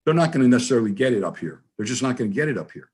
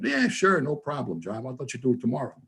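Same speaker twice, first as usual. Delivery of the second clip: mock breezy promise; 4 dB quieter than usual. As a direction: mimic the easy promise, a little sarcastic. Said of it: "only minutes after he said".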